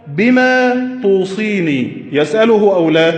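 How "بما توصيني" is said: slow sing-song question; drawn-out mock chant of a question; asking letter writer. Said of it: "فقال له".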